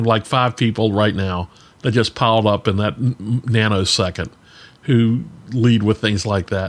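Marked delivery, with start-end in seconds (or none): none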